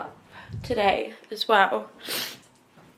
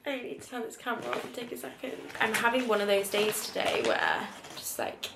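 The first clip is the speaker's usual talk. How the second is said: emotional; 5 semitones higher than usual. Real, not acted. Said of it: "I'm so emotional".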